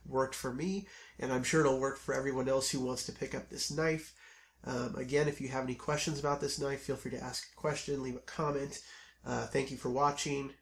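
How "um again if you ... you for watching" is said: scratchy, hoarse voice from a cold; croaky voice, under the weather. Real, not acted. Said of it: "Apologize for my voice".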